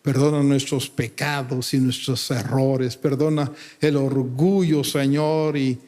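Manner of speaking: earnest, measured pastoral prayer; solemn, sincere address to God; closing prayer. Real, not acted. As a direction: pray aloud for the congregation, pausing between phrases.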